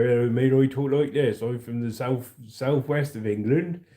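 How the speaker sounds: rural southwest England accent; West Country accent. Shown as a demonstration. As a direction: talk like someone from the English countryside. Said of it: "if you're from the countryside, you go".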